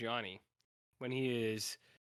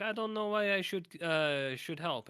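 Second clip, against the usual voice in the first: quoting Johnny; 6 semitones higher, 4 dB louder, slower than usual. Retold or imitated. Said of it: "'Cause Johnny was like".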